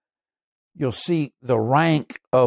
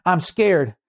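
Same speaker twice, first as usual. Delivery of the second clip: higher retold frightened cry for help; crying out in fear; 4 semitones higher than usual. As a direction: imitate her begging, pitched up and urgent. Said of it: "Candy was crying out".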